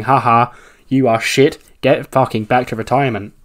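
lightly acted mocking jeer; mocking taunt. Wrestler jeering at a dumped rival, mildly mocking. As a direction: play a touch of gloating scorn. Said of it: "she starts mocking Kaitlyn".

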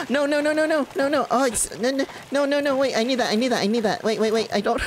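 high, loud frantic pleading; panicked no no no. Real, not acted. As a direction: panic as your loot slips away. Raft being lost, panicked.

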